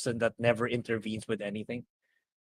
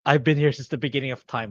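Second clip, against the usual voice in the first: loud, far-off mock mystic boasting; boastful Tom Bombadil; 5 dB louder than usual. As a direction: puff up like an ancient badass. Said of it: "So it's like".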